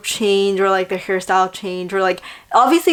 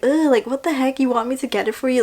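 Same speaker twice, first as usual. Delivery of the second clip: mock annoyed grumble; 4 semitones higher, faster than usual. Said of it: "it wasn't that reaction".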